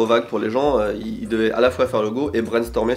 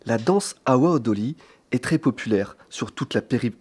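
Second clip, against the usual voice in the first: documentary narrator. Acted. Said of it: "avec une voix de, de voix off de documentaire".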